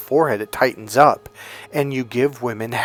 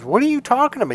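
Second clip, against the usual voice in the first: high, indignant what are you talking about; offended client; 11 semitones higher, faster than usual. Retold or imitated. Client stunned at being called out, pitching up indignant.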